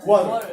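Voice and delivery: "water" as Americans say it. Shown as a demonstration. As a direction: say "water" the American way, WAH-der. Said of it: "they pronounce".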